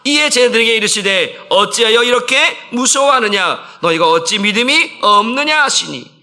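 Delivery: high, loud, measured verse reading; scripture read aloud. Real, not acted. Pastor leading a joint Bible reading, loud and measured. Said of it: "말씀을 한번 같이 읽어봅니다".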